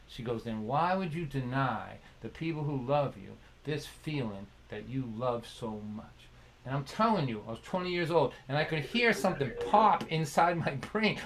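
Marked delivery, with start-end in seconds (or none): 0.4-6.1 soft, lower, tender question; gentle wisdom. Retold or imitated. Elderly mentor teaching her young friend, gently. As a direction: ease the point home gently and quietly. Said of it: "an example of the gentle".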